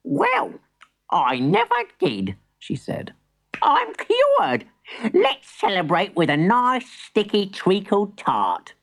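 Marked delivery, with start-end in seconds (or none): 0.0-2.4 amazed granny. Acted. 3.6-8.7 put-on high, joyful old granny; delighted granny.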